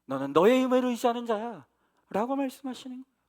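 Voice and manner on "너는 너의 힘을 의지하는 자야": God rebuking. Retold or imitated. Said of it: "뭐라고 책망하냐면".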